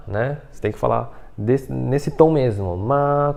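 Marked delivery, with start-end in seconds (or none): 2.8-3.3 "ma" drawn out on a single note; "ma" kept level and long; first tone, sustained. Shown as a demonstration. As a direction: stretch the vowel of "ma" as if singing. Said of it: "como se estivesse cantando".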